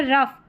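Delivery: रफ ending in "uff"; रफ, short vowel and final f; OUGH as "uff". Shown as a demonstration. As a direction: say रफ with GH sounded as f. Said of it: "अफ करके उच्चारण हो".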